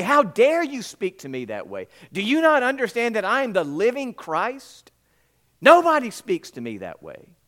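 a hypothetical Jesus scolding Martha, mock outrage; mock indignant rebuke. What Jesus did not say to Martha, mock furious rebuke. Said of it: "Jesus did not lash out at Martha".

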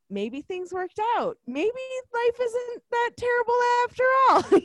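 exaggerated high-pitched wishing; mock hopeful. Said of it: "you're hoping".

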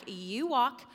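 firm, loud acted comeback; mad retort. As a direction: reenact being fed up, pushing each order back. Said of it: "I was so mad".

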